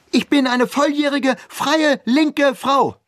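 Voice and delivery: very high, loud indignant cry; defiant shout. A narrator's reading. Daughter shouting her independence at her father. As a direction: hurl it back at your father.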